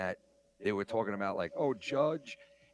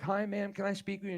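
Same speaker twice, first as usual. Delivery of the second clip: much higher, sweet polite voice; mock nice cop; 9 semitones higher than usual. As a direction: sound gentle and friendly like a cop. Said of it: "walks up on her really nice".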